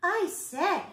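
high little spider voice; small spider voice. A narrator's reading. Tree spider hails the bug, small voice. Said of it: "he heard the small voice of a tree spider speak".

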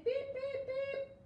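very high, loud horn beeps; truck horn beeps. Pretend. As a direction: toot like the little blue truck. Truck honks in story.

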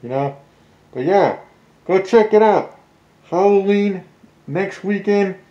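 muffled through a mask; talking behind a mask; through a face mask. Real, not acted. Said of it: "I don't know if you guys can hear me through the mask".

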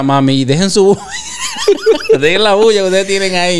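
half-playful scolding yell; retold shout. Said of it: "me decía".

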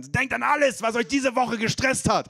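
high, slow mock trainer cry; imitating the trainer calling out high; trainer shouting. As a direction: pump up the class like a spin coach. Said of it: "brüllt die Trainerin".

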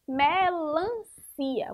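"melancia" stretched very slowly; slow syllable demo. Shown as a demonstration. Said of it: "Ó, melancia".

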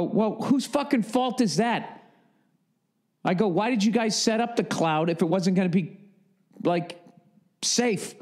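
retold flipping out. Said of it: "but I was flipping out".

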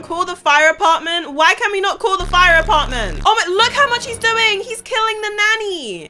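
loud, frantic gamer commentary; alarmed. Real, not acted. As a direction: call out for help in rising panic. Fire attack, calls for help.

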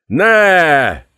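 high, loud howl of despair; anguished scream. A narrator's reading. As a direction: cry out as his friend dies. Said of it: "üvöltötte a kínai". (kétségbeesett üvöltés)

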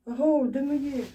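high-pitched holler for attention; calling out. Real, not acted. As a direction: call up the shaft to anyone listening. Hollers to anyone outside.

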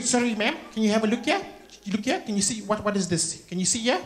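polite, rising fussy queries; put-on fussy bank customer; complaining white customer. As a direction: press the teller with prim little questions. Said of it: "wants to speak to the manager".

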